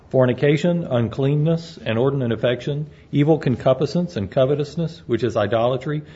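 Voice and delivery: measured, formal reading of King James verses; scripture reading. Acted. Pastor reads the scripture to the congregation, formal and measured. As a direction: read it out like holy writ from the pulpit. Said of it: "The Apostle Paul writes".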